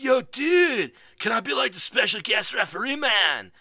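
high, loud surfer-dude voice; imitated dude voice. Streamer retelling Griffin's request, high dude voice. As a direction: ask it like a laid-back dude. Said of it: "But he's like".

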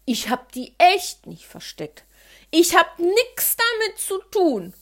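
loudly indignant protest; child indignantly denying to father. Acted. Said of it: "rief ich empört".

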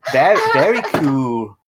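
second go at a Liverpool accent like a famous band's; hammed-up accent in the style of a famous band. Shown as a demonstration. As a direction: put on a jokey Liverpudlian voice, timbre changed. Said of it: "That's my famous-band accent".

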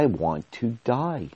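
slow, deliberate repeat, each word set apart; retold grim realisation. Man recalling his words to the mirror, slow and deliberate.

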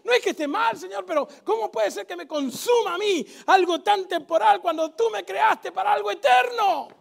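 loud, pressing plea to God; assertive prayer. Acted. Preacher modelling a daring prayer to his congregation, loud and urgent. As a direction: pray it hard, like you mean every word.

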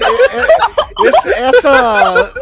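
laughing stammer. Real, not acted.

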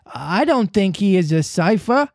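put-on high boy crying out quickly; lightly voiced boy defending the father; eager cry. A narrator's reading. Tootles defending Mister Darling, eager high cry. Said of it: "Tootles cried instantly".

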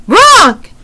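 very high raven squawk; a single imitated bird cry; raven croak. A narrator's reading. Raven replies to Annie with a high croak.

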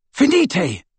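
high urgent incantation; cried spell. A narrator's reading. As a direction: cry the spell out.

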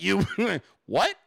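laughing through an incredulous what; laughing disbelief. Retold or imitated. Host retelling his own reply to the offer, laughing in disbelief. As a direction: giggle out the disbelief.

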